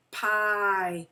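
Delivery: "Pie" with a loud, drawn-out long I. Shown as a demonstration. Teacher showing pupils where the accent goes, long I in "Pie". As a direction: stretch the vowel in "Pie" so it says its name. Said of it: "where you hear the long and high".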